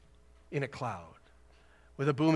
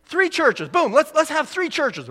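mock excited pitch; 11 semitones higher, 8 dB louder than usual. Mocking church split joke.

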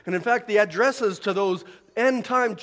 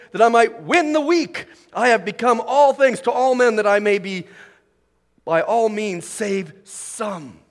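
louder, proclaiming each line of the verses; scripture reading; 6 dB louder than usual. Acted. Preacher reading Paul's words to the congregation, louder and proclaiming. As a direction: read the passage out like a herald.

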